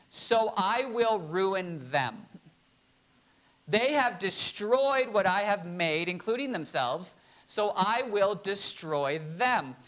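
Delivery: slow, measured divine verdict; a hint of a grave God, drawn out; solemn voice of God. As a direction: speak as God passing judgment, slowly. Preacher voices God's judgment.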